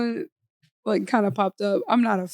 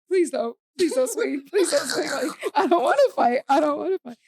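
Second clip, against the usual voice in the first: pitched-up little plea; mock pleading; 4 semitones higher than usual. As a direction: plead half-jokingly to stay out of a fight. Pleads in back, avoiding fight.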